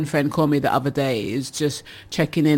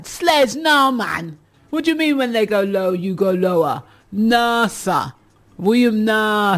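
exasperated disbelief; 3 semitones higher than usual. Real, not acted. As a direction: scold Sledge in disbelief. Host scolds Sledge's comment.

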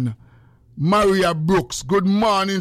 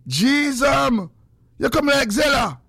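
a raised, higher playful call; teasing raised call; mock outrage; 6 semitones higher than usual. Real, not acted.

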